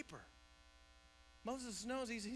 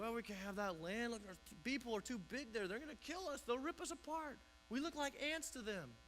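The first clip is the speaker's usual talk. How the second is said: higher, panicky whine; mock fear; 3 semitones higher than usual. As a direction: play the cowards backing off. Israelites scared of giants.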